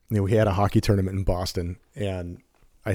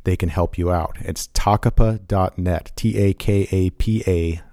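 measured podcast ad read; steady announcer-style plug; sponsor read. Acted.

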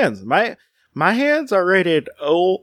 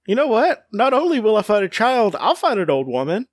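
high, brash mock bravado; belligerent drunk; 5 semitones higher than usual. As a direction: bluster like a barroom brawler. Mock threats to old cat-killers.

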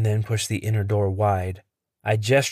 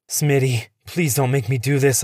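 raised, urgent pleading; 3 semitones higher than usual. Acted. Henry begging infected Smitty, a raised urgent plea. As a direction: beg him, close to desperate. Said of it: "I plead".

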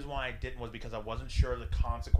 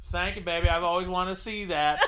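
mock-grateful, raised pitch, edge of laughter; sarcastic; 4 semitones higher than usual. IT guy humors the old woman who exposed herself, sarcastic. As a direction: play up the fake gratitude, amused.

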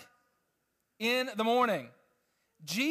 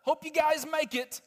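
dismissive well-wishing; 6 semitones higher than usual. Retold or imitated. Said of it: "It wasn't just a".

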